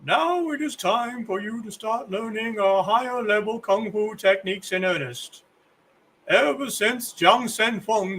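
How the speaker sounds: lightly voiced old kung fu master; a hint of a solemn elderly teacher; old man voice. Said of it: "It's the old man voice again".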